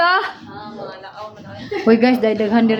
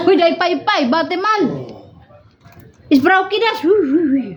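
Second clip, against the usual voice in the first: yelling across the room; 5 semitones higher than usual. Real, not acted. Calling out to someone nearby.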